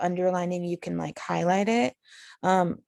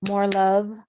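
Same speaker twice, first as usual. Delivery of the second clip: "more love" set apart, stronger on "love"; single iamb; 4 dB louder than usual. Shown as a demonstration. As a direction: cut "lovely" short to make "more love" one foot. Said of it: "there's one".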